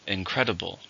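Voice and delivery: Incredible, with the weight on "cred"; stress on the second syllable. Shown as a demonstration. Teacher modelling the word for learners, stress on "cred". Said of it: "Stress on the second".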